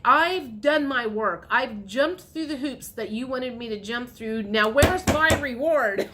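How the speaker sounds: mildly indignant, emphatic demand; impatient demand. Acted. Viewer demanding a reward from the universe, impatient. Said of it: "you're impatient".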